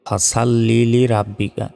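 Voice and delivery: ফাসাল্লি with a thin "sa" in place of heavy "so"; mispronounced. Shown as a demonstration. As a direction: say ফাসাল্লি wrongly, with a light s and open a. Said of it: "আমরা অনেকে ভুলে এখানে উচ্চারণ করি".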